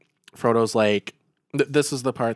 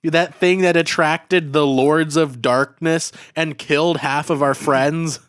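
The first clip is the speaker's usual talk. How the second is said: angry rant; 4 semitones higher, 5 dB louder than usual. Acted. Frodo snapping at Bilbo.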